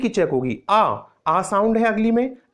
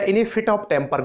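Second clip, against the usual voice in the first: "in a fit of temper" spoken very slowly, each word apart; slow careful demo; much slower than usual. Shown as a demonstration. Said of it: "या". (धीमे-धीमे साफ़ उच्चारण)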